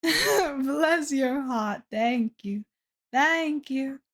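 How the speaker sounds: put-on slow, playful Southern accent; fake Southern accent. Streamer answering chat with "bless your heart", fake Southern accent. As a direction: put on a mock Southern accent, stretching the words. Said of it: "doing my fake Southern accent".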